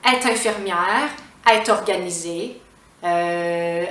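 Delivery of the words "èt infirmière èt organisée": "est" as "èt" linked to "infirmière" and "organisée"; t liaison. Shown as a demonstration. Teacher showing the vowel rule, liaison pronunciation. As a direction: sound the t in "est", no "elle". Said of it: "on va prononcer le T".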